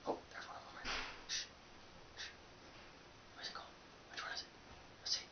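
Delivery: furtive whisper; hushed. Real, not acted. Vlogger hiding his talk from a nearby roommate, hushed. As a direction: drop to a very soft, secretive hush.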